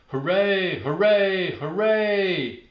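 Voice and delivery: high, loud triple hooray; yelled cheer. Acted. Norma Jean cheering for Amy and Sam, high and loud. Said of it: "Norma Jean yelled".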